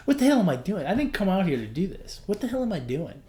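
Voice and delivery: exasperated self-talk. Retold or imitated.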